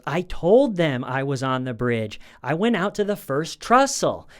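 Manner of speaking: imitating a husband whose voice climbs high and loud; voice going up. Husband answering his wife about the bridge, voice going up. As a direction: let the retold protest rise in pitch to the end. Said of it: "the way his voice goes up".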